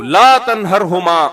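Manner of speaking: slow, drawn-out recited verse; quranic recitation. Shown as a demonstration. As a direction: intone the verse slowly. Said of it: "تو". (تلاوت کے انداز میں آہستہ)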